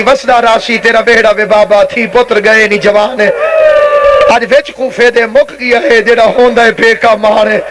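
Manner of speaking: understated weeping plea to a father; retold tearful lament. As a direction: recite it as a grieving daughter's lament. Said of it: "رو رو کے کہتی تھی".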